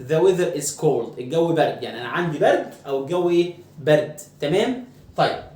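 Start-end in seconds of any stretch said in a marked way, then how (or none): 0.1-1.2 The weather is cold said very slowly; slow model sentence. Shown as a demonstration. Teacher models The weather is cold slowly for students. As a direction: stretch out The weather is cold word by word. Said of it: "لكن الجو النهاردة برد".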